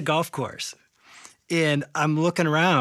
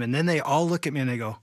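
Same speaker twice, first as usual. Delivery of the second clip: usual speaking voice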